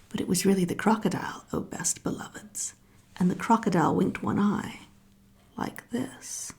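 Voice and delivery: hushed secret whisper; whispered storytelling aside. A narrator's reading. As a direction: lean in and whisper the reveal. Narrator whispers crocodile's arrival.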